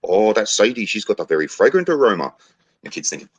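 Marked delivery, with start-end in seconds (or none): 0.1-2.2 put-on knowing Maori chief in a Kiwi accent; New Zealand accent. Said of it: "New Zealand accent there".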